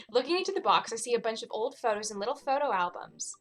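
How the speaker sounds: put-on brisk, makeshift British accent; the one British accent they can manage; shitty British accent. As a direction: read it quickly in an amateur British accent. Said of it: "the one British accent I can do".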